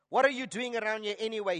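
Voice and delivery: retold irritated demand; angry demand. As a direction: demand it briskly, mildly angry. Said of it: "he demanded".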